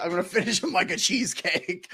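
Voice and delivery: put-on light Australian accent quote; quoting Fat Amy, Australian accent. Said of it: "why you do an Australian accent".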